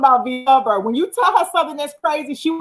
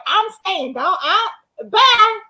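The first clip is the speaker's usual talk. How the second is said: high-pitched mock brush-off; imitating departing friend; 7 semitones higher, much slower than usual. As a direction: toss it off high, imitating her goodbye. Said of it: "you was like".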